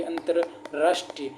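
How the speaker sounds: अंतर्राष्ट्रीय said slowly while writing it; careful demo. Shown as a demonstration. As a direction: slowly spell out अंतर्राष्ट्रीय for the board. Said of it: "र वाला बाहर चला जाएगा". (अंतर्राष्ट्रीय लिखते हुए धीरे उच्चारण)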